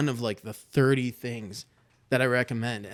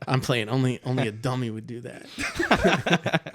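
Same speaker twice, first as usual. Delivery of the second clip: laughing; 3 dB louder than usual. Real, not acted. Joking about birthday ages.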